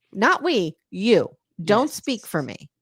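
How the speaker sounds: put-on, horrified tone of voice. Retelling a reply from a recapped scene: imitating someone horrified. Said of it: "She's horrified by this".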